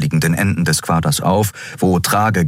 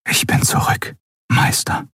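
hushed, voiceless whisper. A narrator's reading. Returning pupil to his master in the sarcophagus, whispering. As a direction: whisper it privately to someone sleeping. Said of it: "flüsterte er".

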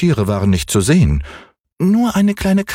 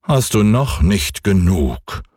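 ein Hauch von altem, geduldigem Mond; milde, gelassen mahnend; gutmütiger Mond. Acted. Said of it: "sagte er". (leicht gespielte Mondstimme)

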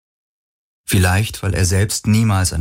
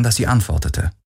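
plain reading voice

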